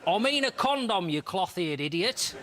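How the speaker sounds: high, mock exasperated woman's voice. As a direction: she scolds him, laughing. Woman snaps at detective.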